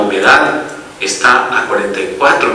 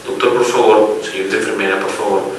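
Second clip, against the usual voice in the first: the newborn begging the doctor and nurse for CPAP, softly pleading; baby's plea; 3 semitones lower, 4 dB quieter than usual. Retold or imitated. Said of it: "le esté diciendo".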